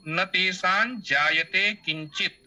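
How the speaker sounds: slow verse reading, ending cleanly on किंचित with its final t; word-by-word recitation. Shown as a demonstration. Teacher showing the wrongly split verse, word-by-word recitation. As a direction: recite slowly, closing किंचित before the next word. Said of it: "अगर आप किंचित पढ़िएगा".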